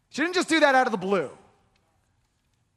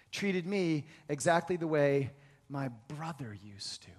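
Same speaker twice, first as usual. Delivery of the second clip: soft whisper; 9 semitones lower, 9 dB quieter than usual. Retold or imitated. Pastor retelling Elena's words, whispering. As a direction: whisper the rest, hushed and tender.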